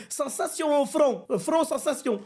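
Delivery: put-on broken-French Roum accent, slowed down; accent de Roum imité. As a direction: imitate a Roum struggling through French. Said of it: "je parlais comme un roum". (faux accent de Roum, lent et haché)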